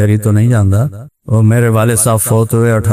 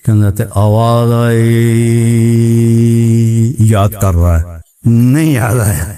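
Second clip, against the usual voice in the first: village preacher; 3 semitones lower than usual. Retold or imitated. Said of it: "ایک دیہاتی مولوی تقریر کر رہا تھا".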